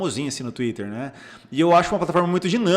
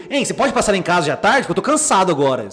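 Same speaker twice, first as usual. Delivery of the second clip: pushy, louder demand; misread as aggressive; 2 semitones higher, 4 dB louder than usual. Shown as a demonstration. Therapist showing how the person misreads the message, irritated. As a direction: read the text as a mildly irritated demand. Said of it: "a pessoa lê assim".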